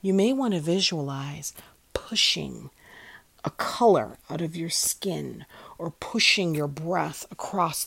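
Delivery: deliberate, emphatic meditation coaching; measured phrases with breathing pauses; guided breathing exercise. Acted. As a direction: coach listeners through releasing tension.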